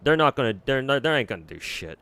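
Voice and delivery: irritated burst that settles down; annoyed outburst. Real, not acted. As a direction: snap at the critics who keep coming back. Angry rant about Twitter critics.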